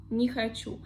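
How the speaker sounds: не хочу joined as ni-ha-CHU; one phonetic word. Shown as a demonstration. Teacher repeating for learners, не хочу as one word ni-ha-CHU. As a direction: say не хочу with a short unstressed "ni". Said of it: "I say не хочу".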